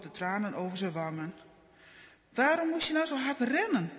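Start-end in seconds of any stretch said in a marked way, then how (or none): 2.3-3.9 a higher, mildly scolding mother's question; a touch of worried grumbling, not real anger. A narrator's reading. Mother scolding Sam after his fall, mild grumbling. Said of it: "vraagt mama mopperend".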